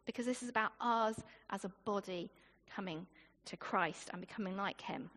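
normal talking voice

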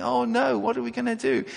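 high fretful lament; light hammed-up wail, pitched high; mock wailing. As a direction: imitate the crowd crying all night. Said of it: "wailing and crying and saying".

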